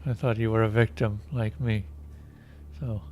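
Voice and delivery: boring monotone voice. Acted. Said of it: "He starts in a boring, monotone voice".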